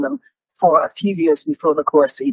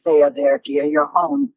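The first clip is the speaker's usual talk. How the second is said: retold soothing; 6 semitones lower than usual. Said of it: "they said very soothingly".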